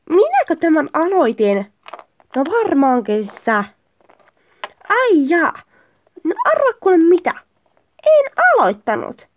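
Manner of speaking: indignant quarrel. Acted. Couple bickering over who started it, indignant.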